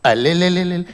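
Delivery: put-on soft crying baby wail, close to tears; baby crying harder. Comedian mimicking baby Shahrukh crying harder in the cradle. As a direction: sob it out like a newborn.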